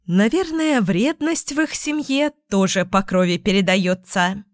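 ordinary delivery

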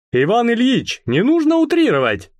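high, hurt protest; offended. Acted. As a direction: voice rising in wounded offence. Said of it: "обиделся Косиченко". (обиженно, высоким голосом)

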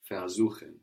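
"Versuchen" with the stress on the "suchen" part, "ver" unstressed. Shown as a demonstration. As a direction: keep "ver" light and land on "suchen". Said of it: "We have the accent on suchen".

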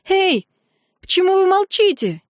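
very high, panicky cry; on verge of tears. A narrator's reading. Eteri calls to the silent priestesses, near tears. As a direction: demand an answer, about to burst into sobs. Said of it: "вот-вот позорно разрыдается".

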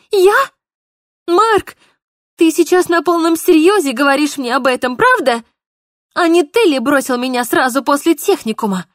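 high, loud incredulous anger; indignant outburst. Acted. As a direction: she can't believe he said it. Polina furious at Mark.

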